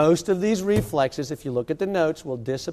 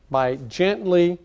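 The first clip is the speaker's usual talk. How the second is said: "gently" said slowly and drawn out, leaning on it; slow emphatic "gently" as a warning to be careful; stressed gently; 2 semitones higher, much slower than usual. Shown as a demonstration. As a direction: stretch out "gently" and lean on it. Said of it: "and I stress the word gently".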